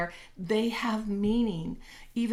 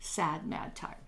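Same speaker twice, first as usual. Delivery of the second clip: slow glum admission; 4 dB quieter, slower than usual. Shown as a demonstration.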